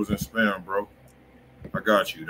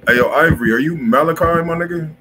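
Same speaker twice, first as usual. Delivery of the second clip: loud, raised call to a viewer; 7 semitones higher, 9 dB louder than usual. Real, not acted. Host calling out to a viewer in chat, loud raised call. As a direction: hail him across the room, higher.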